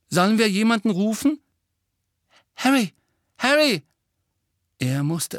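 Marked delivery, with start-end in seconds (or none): 0.1-1.4 high, loud, hurried question; anxious. Acted. Same anxious voice asks for help. 2.6-3.8 high, loud cry to wake someone; urgent calling. Acted. Friend calls to sick boy.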